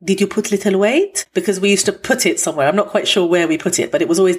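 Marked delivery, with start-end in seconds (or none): 0.0-1.2 lightly voiced Armenian grandmother accent; a hint of a nosy Armenian granny; Mema's Armenian accent. Grandmother asking grandchild about weight, mild Armenian accent. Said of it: "I'm gonna do an accent now".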